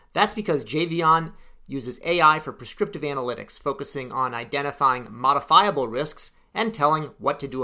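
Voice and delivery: scripted, evenly paced host introduction; podcast intro read. Real, not acted. Host introduces the guest to listeners, scripted podcast read. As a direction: read it as a prepared show opener.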